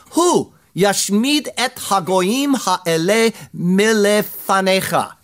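"Hu yashmid et hagoyim ha'ele milefanecha" read slowly in Hebrew. Shown as a demonstration. Preacher reads the Hebrew verse aloud, slow and deliberate. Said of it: "Again, the words are emphatic".

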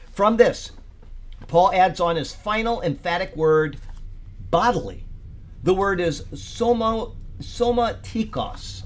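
preacher reading out a study note; emphatic read-aloud. Real, not acted. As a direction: read the commentary out with deliberate emphasis. Reads commentary aloud to group.

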